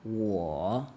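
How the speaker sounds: 我 low, sinking then lifting at the end; teacher tone. Shown as a demonstration. Correcting the learner's repeat, patient teacher tone. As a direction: dip 我 down and bring it up. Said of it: "Teacher tone, I said".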